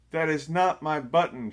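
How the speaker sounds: fed-up Toad shouts at Frog. A narrator's reading. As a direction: punch it out loud and high. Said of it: "shouted Toad".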